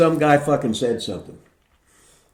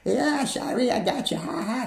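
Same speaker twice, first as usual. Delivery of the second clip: teasing rock star; 11 semitones higher, 5 dB quieter than usual. Retold or imitated. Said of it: "It's fucking John hits me".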